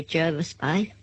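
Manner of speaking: "Jervis Bay" said "JUR-vis"; "Jervis Bay" as locals say it, with ER; local pronunciation. Shown as a demonstration. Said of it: "they say".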